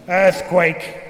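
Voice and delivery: grave, weighty single word; utmost gravity. A narrator's reading. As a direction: drop it heavily. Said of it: "with the utmost gravity".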